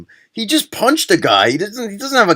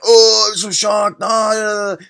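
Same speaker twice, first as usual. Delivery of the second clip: mock surprise; 5 semitones higher than usual. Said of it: "Everyone else was like".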